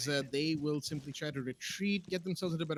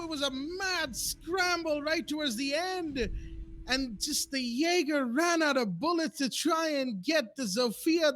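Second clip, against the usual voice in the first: much higher and louder, racing to keep up with the action; frantic play-by-play; 9 semitones higher, 4 dB louder than usual. Real, not acted. Caster erupting as the attackers push in, frantic high shouting. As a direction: shout the call as the round falls apart.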